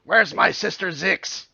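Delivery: slow loud New Jersey tough guy; bad Jersey accent. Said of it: "I can't do a Jersey accent still".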